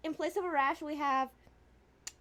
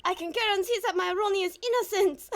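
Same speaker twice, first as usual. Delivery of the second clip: hammed-up French accent, getting higher; terrible French accent; 4 semitones higher than usual. Desiree telling Nicky boy Ronnie is innocent, French accent. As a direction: vouch for someone in a bad French accent. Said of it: "is my terrible accent".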